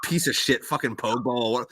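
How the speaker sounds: mock-furious retort to the therapist; hammed-up hostile outburst; combative rant. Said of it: "Very combative guy".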